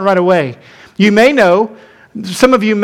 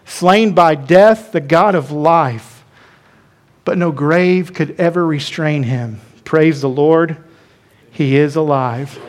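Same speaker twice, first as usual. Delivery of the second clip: hymn lyric recited; 4 semitones lower than usual. Acted. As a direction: let each line settle, reverent and low. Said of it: "You've heard it in song".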